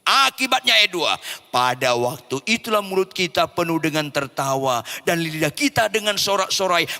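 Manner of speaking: emphatic scripture proclamation; forceful preaching. Acted. Preacher reading verse two to congregation, emphatic preaching.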